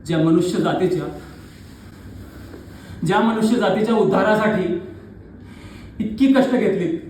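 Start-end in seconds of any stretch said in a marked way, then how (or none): 3.0-7.0 raised, building stage declamation; dramatic challenge rising in pitch; impassioned accusation. Acted. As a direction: confront a god, pressing harder toward the final question.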